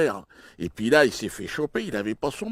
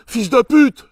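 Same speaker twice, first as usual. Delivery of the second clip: higher, louder, slowed-down yelled insult; 12 semitones higher, 16 dB louder, slower than usual. Retold or imitated. Friend imagining insulting the cop, yelled. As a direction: hurl the insult out loud. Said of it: "je lui aurais dit".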